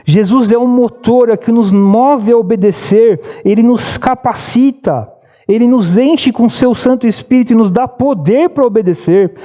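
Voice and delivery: full-force pulpit preaching, pitch climbing; fervent preaching. Real, not acted. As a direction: preach it with rising fire.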